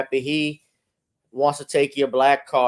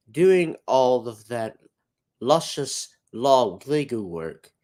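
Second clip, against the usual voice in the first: spooky Hitchcock; 2 semitones higher than usual. Acted. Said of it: "just a spooky impression of Hitchcock".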